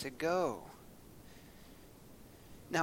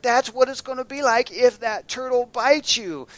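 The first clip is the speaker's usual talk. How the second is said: mama's lesson; 9 semitones higher, 9 dB louder than usual. Retold or imitated. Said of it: "And she's like".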